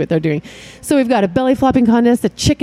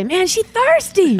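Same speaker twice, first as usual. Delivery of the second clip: imitating a guy's comment; 9 semitones higher, slower than usual. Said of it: "the black man will say".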